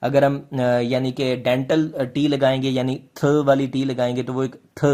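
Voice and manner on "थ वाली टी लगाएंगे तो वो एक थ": "थ" sounded alone as theta. Shown as a demonstration. Teacher explaining dental T to students, "थ" pronounced as a theta sound. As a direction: say each "थ" as a dental th. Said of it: "यानी theta वाली एक आवाज़ आएगी".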